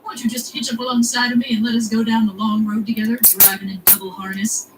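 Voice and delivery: hammed-up American accent, folksy suitor; American Quincy Morris. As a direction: propose in a put-on American accent. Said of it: "whose lines don't sound right in any accent".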